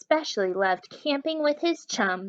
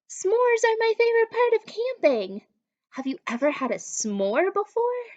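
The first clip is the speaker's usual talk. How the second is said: excited; 11 semitones higher, 3 dB louder than usual. Real, not acted. Reader excited aside to children.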